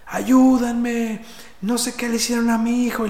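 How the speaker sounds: high, frantic plea for help with the words "Ayúdenme" and "no sé qué le hicieron a mi hijo" pushed up; desperate mother's cry. Retold or imitated. Mother pleading with the crowd in the metro, frantic high cry. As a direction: imitate a panicked mother calling out for help. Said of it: "gritaba de, desesperada".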